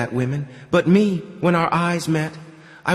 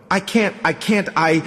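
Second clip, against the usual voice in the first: higher, straining gasp at the peak; breathless climax; 5 semitones higher than usual. Acted. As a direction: push the words out at the peak of pleasure. Climax during sex scene.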